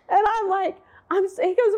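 usual speaking voice

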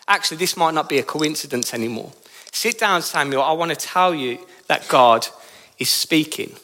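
lightly voiced priest breaking weighty news, low; sober old priest. Eli tells Samuel that God is speaking, soberly and low.

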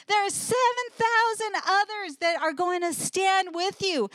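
mild voicing of God commanding Elijah; God's urging. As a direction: urge him back, encouraging and firm.

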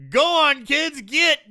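loud, high-pitched dismissive order; mock shooing shout. Detective letting the kids go, mock shooing shout.

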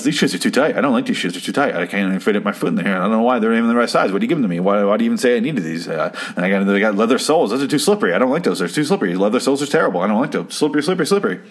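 rattled-off, lightly whiny griping; a touch of petulant nagging, repeating each gripe; mock complaining. Fred griping about the stolen shoes, mildly mock complaining. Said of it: "starts bitching and complaining".

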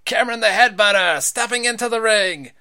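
high, loud ring introduction; announcer shout. Acted. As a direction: announce him to a packed arena. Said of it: "That's the announcer's job".

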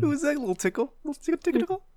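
very high creepy sing-song voice; squeaky teasing tickle tickle; giggly tickle attack. Pretend.

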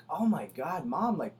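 loud, high, slow exasperated plea; mock exasperation, stretching the words. Retelling a plea to loud mom, exasperated.

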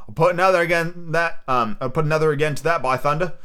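hint of a pirate sea cook; lightly acted old seadog, oath and all; lightly voiced Long John Silver. Sea cook accuses the boy, lightly voiced pirate.

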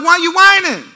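high mock-exasperated question; lightly acted fed-up parent; exasperated dad. Dad to his whining sons, exasperated complaint.

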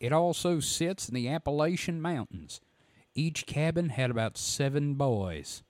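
lightly voiced Southern reader; a hint of a drawling storyteller; Phantoms and Monsters voice. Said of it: "I don't know why he's Southern".

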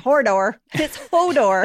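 southern accent. Shown as a demonstration. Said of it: "Don't listen to my southern accent".

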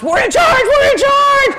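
very high loud triumphant shout; kids screaming. Retold or imitated. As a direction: yell like kids taking over. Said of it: "they're screaming".

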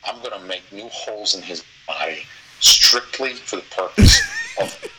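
laughing loud through the words. Pretend. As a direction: crack up while shouting it. Escalating rant, laughing.

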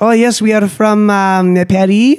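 high, slow mock French accent. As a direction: play a snooty Parisian, slowly. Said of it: "imitating Parisian hikers".

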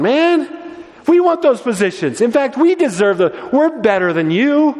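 squabble like jealous rivals; whiny disciples. Retold or imitated. Disciples voiced squabbling over positions.

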